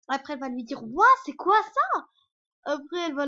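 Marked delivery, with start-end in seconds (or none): 0.8-2.1 loud, slow, high wonder on ouah; amazed gasp. Retold or imitated. Girl marvels at the fairy world, loud and amazed. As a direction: stretch the ouah out in awe.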